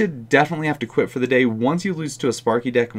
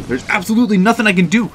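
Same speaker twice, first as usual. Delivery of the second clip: high, louder cry of helpless frustration; frustrated outburst; 9 semitones higher, 5 dB louder than usual. Real, not acted. Gamer losing to a maxed deck, frustrated high outburst. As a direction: throw up your hands in disbelief.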